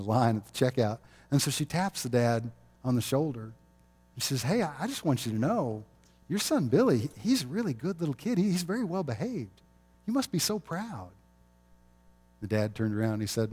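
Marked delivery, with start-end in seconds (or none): 4.4-11.1 lightly voiced grandmother, higher pitched; grandmotherly lady. Older lady praising a stranger's son to his dad, lightly voiced grandmother. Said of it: "grandmotherly type lady there in the grocery store".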